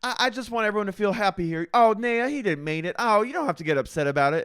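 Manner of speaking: imitating a sugary hostess brushing it off; mock sweet host smoothing things over; sugary fake sweetness. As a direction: coo it like an overly sweet hostess hiding rage. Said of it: "I'm like".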